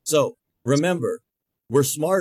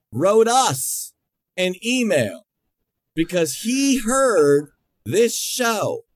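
rising excitement; 5 semitones higher, slower than usual. Real, not acted. Building outrage on radio show.

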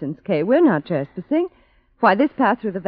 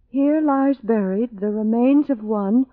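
slow, measured inscription reading; solemn reading aloud; 3 semitones higher, slower than usual. Acted. Woman reading a tombstone to her friends, solemn reading. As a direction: read it out slowly and gravely.

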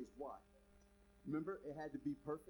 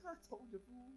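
mock cocky believer; 4 semitones higher, 6 dB quieter than usual. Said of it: "so cocky".

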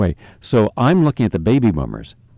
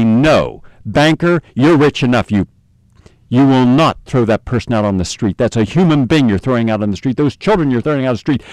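raised, scolding voice at the banker; imagined rebuke. Pretend.

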